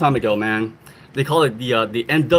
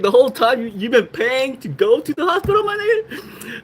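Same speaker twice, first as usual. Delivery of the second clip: outraged yelling; 9 semitones higher than usual. Retold or imitated. Outraged at friend paying for care.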